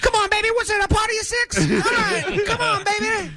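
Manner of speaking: high shouted hype-man welcome; wrestling-manager host voice. Retold or imitated. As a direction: hype them in as a screaming host.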